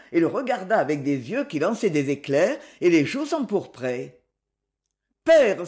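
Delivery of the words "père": cry out. Acted. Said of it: "s'écria-t-elle".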